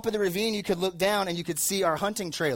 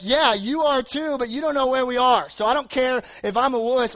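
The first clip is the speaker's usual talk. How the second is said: mock indignant self; 5 semitones higher than usual. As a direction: play your scared younger self pushing back. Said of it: "And I'm just like".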